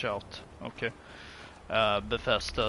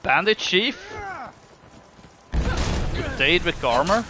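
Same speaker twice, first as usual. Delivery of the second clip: incredulous; 12 semitones higher, 10 dB louder, slower than usual. Real, not acted. Amazed at enemy gear.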